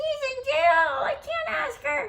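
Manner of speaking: very high-pitched, slow, unhurried woman's voice. Retelling a teaser interview answer, doing a Summer impression. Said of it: "did I do a Summer impression very well?".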